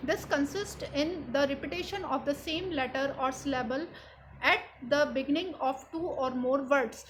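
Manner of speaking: reads the definition aloud slowly, word by word; slow, careful textbook read; slow dictation. Shown as a demonstration. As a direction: dictate it slowly so the class can copy it.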